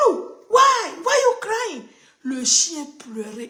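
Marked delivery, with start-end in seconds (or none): 0.1-1.8 very high, loud call to a pet; high squeaky pet voice, worried; pitched way up like talking to a puppy; calling to the dog. Retold or imitated. Pastor calls to crying dog.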